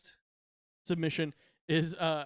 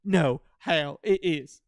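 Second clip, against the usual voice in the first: slow, louder whiny voice; plead, whining and slow; whiny plea; 6 dB louder, much slower than usual. Pretend. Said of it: "Try being me".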